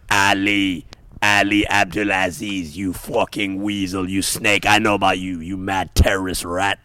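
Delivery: mock Conor Irish accent. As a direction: sneer it out in a lightly Irish accent. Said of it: "he goes".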